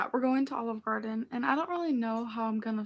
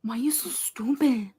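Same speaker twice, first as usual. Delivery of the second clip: whispered self-scold; 3 dB louder than usual. Real, not acted. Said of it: "cheap ghetto accent".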